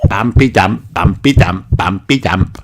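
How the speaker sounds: high, playful bouncing chant; Peppa voice. Acted. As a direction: mimic the heartbeat for fun. Peppa imitates heartbeat.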